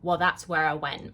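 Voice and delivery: flat, deadpan retort. Retold or imitated. Irritated student answers her Spanish teacher, deadpan. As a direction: answer back in an even deadpan. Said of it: "very deadpan was like".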